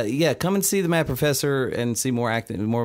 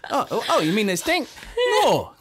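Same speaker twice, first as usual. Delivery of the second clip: giggling in a put-on voice; laughing through lines; 3 semitones higher than usual. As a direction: laugh while doing the bit. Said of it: "Shrek only".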